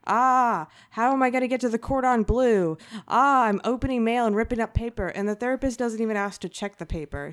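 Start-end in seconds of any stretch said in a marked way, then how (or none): 0.1-5.1 mock frantic patient. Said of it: "And she's like".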